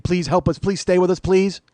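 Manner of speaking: mildly hammed-up desperate begging; pleading. Diners to normal server, mock pleading. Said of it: "we practically cling to her leg".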